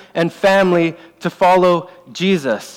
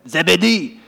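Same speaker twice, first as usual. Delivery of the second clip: put-on French Canadian accent; 2 semitones higher than usual. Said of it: "fun to say with a French Canadian accent".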